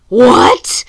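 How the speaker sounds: breathless whispered "What?" rising in disbelief; shocked whisper. Acted. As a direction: gasp it out in shock. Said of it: "we all said".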